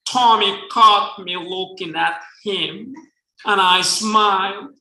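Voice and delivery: put-on reading in a self-admittedly shaky Southern accent; attempted Southern accent. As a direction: give it your best try at a Southern accent, a Mexican speaker's attempt. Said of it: "this is me trying a Southern accent".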